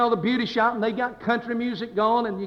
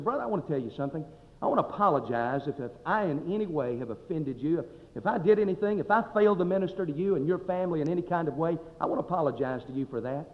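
retold gentle apology; 2 semitones lower, 6 dB quieter than usual. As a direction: re-enact apologizing quietly to an upset man. Voices himself apologizing to angry man.

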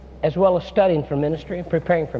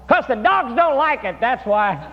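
called out answer; 7 semitones higher, slower than usual. Retold or imitated. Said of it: "shouted out".

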